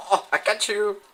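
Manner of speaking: loud, high triumphant yell; excited shout. Real, not acted. Gamer nailing an opponent, loud triumphant yell. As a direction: shout it as you catch him.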